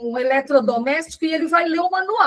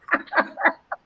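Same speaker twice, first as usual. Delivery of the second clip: short amused laugh; brief laugh at own joke; quick, real laugh; 2 semitones higher, 3 dB quieter than usual. Real, not acted. Joking about her husband.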